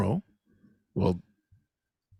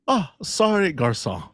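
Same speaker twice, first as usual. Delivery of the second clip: mock polite worker, much higher; apologetic worker; 5 semitones higher, 3 dB louder than usual. Playing the sorry drive-thru worker greeting the customer, high and polite. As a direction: grovel a little, overly polite.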